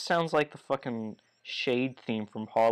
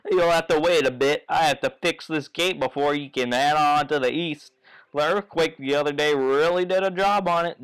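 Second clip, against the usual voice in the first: louder, drawling country dad; folksy father voice; 3 dB louder than usual. Acted. Goomba father welcoming Mario, louder folksy voice. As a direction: reassure Mario with folksy charm.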